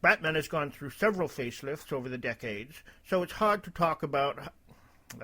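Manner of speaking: droopy dog voice drifting slightly British; a hint of accidental British in a put-on voice; slipping British accent. Reading a post in droopy dog voice, slipping into British. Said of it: "I keep slipping into a British thing".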